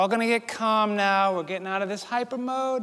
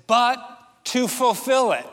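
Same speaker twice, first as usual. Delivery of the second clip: "But" punched louder, "fulfill" lifted; stress on BUT; 3 semitones higher, 4 dB louder than usual. Shown as a demonstration. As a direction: hit "But" hard for contrast. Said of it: "emphasizes the biggest contrast".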